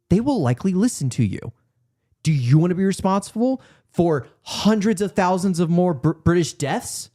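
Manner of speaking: measured, lightly acted appeal, rising in pitch; Montgomery, rewritten. Pressing Andrew Scott on the forecast, lightly acted urgency. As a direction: start level, then climb as the argument presses. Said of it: "Here's a better version of that".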